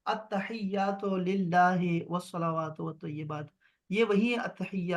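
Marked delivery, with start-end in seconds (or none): 0.1-3.5 slow recitation like in prayer; recited prayer. Shown as a demonstration. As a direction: recite it as in namaz. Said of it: "آپ نماز میں پڑھتے ہیں". (نماز کی طرح آہستہ تلاوت)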